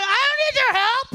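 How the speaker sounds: mock angry snap. Comic snaps at the lady in line, mock angry. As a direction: turn around and snap back. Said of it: "a little black angry".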